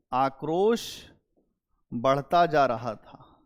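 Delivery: slow it down so students can note it; teacher repeating the point for notes; slow dictation. Shown as a demonstration. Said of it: "यहीं पे लिख लो note".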